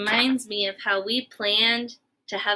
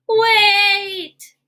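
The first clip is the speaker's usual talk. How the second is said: high, loud alarmed "Wait!"; sudden shout; 8 semitones higher, 6 dB louder than usual. Acted. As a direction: stop everything with one loud cry. Gerald suddenly halts the fun.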